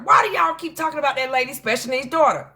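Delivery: high, loud exasperated protest; Kappa. Retold or imitated. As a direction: imitate someone indignantly pleading a case. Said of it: "as Kappa said".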